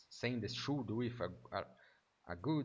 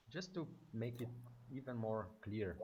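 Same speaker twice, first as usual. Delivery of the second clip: normal talking voice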